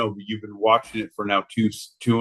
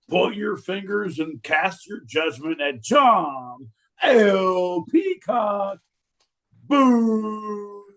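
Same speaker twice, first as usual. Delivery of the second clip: ringmaster; 6 semitones higher than usual. Acted. Announcing crowd to boo John.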